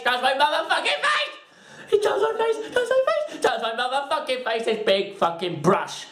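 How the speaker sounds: shoots up into a high squeal; squealed comic outrage; hammed-up rant. Hammed-up rant about the brush.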